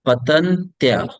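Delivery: patantya stretched slowly with a clear ya; slow and exact. Shown as a demonstration. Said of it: "pronounced as ya".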